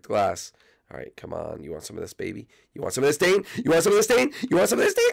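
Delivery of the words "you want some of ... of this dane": taunting. Acted. Taunting Dane, rising each time.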